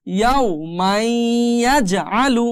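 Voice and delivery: "মাই" held nasally into "ইয়াজআলু"; merged ghunna. Shown as a demonstration. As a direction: slowly glide from "মাই" into the y of "ইয়াজআলু". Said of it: "এখন উচ্চারণ হবে".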